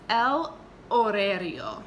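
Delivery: el horario said slowly and clearly in Spanish; slow Spanish model word. Shown as a demonstration. Teacher modeling a vocabulary word for students. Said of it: "So repite, por favor".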